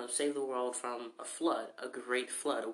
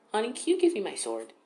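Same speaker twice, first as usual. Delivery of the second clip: higher and louder, a cheery mom asking; lightly voiced mom calling out sweetly; 7 semitones higher, 6 dB louder than usual. Mom asks her son for the sword in a raised sweet voice.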